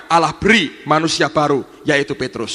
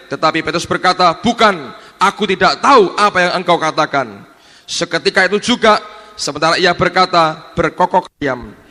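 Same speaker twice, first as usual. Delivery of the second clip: projected, emphatic Bible reading; scripture reading; 4 dB louder than usual. Acted. Preacher reads Peter's denial to congregation, declamatory reading. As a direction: read the passage out forcefully to the congregation.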